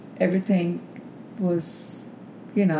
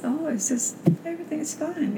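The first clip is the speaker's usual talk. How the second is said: high, light brush-off; imitating a husband's airy reassurance; retold reassurance; 9 semitones higher, 3 dB quieter than usual. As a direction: soothe her worry away, higher and softer. Husband brushes off wife's worry.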